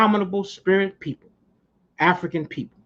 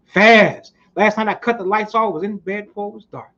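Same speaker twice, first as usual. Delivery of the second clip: Ali boasting; 2 semitones higher than usual. Retold or imitated. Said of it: "And Ali would say".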